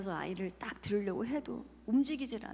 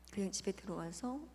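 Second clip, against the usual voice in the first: usual speaking voice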